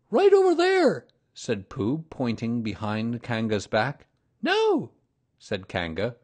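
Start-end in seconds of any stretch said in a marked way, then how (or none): 0.1-1.1 higher, louder hurried bear; Pooh quickly. A narrator's reading. Pooh hurriedly points Kanga to a tree, higher and louder. 4.4-4.9 very high, louder kangaroo mother; sing-song motherly greeting. A narrator's reading. Kanga greets Pooh, very high and motherly.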